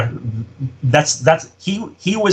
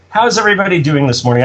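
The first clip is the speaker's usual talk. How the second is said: lightly imitated cheery boss, pitched up; innocently friendly, a little higher; friendly morning greeting; 6 semitones higher than usual. Imitating Mustafa greeting the office, friendly. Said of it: "just friendly as could be".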